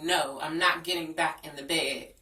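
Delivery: rising loud defiance; defiant shout. Retold or imitated. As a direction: stand your ground, yelling. Retold refusing boyfriend.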